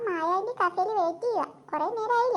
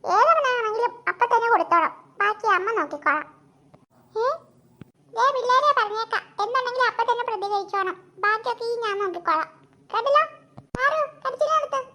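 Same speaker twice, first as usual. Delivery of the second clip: fierce mother. Acted. Mother backs kids, fierce.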